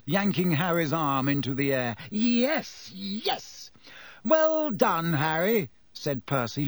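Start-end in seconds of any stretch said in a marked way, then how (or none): 2.1-3.7 high, held-back cheering; yelled. A narrator's reading. Ron celebrating Harry's win, yelled. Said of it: "Ron yelled". 4.2-5.7 high-pitched congratulation; delighted. A narrator's reading. Percy congratulating Harry, delighted. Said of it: "looking delighted".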